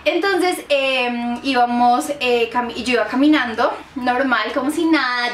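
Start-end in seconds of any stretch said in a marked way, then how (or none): none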